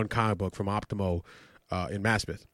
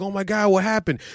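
imitating his dad; 7 semitones higher than usual. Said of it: "My dad's like".

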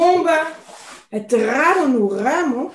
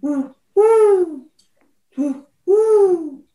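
owl hooting; 4 semitones higher, 4 dB louder, much slower than usual. Acted.

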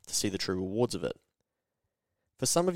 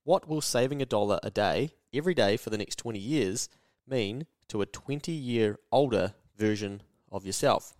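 the repeat said slower, every phrase leaned on; slow down and spell it out so it sinks in; slower, emphatic repeat. Shown as a demonstration. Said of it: "I'll say that again".

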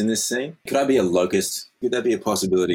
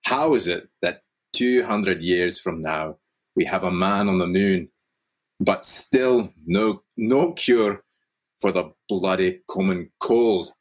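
put-on Scottish accent; slower than usual. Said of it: "I hate this Scottish accent".

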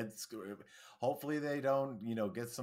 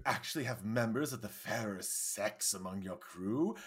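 Trelane. Acted. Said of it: "that's when Trelane says".

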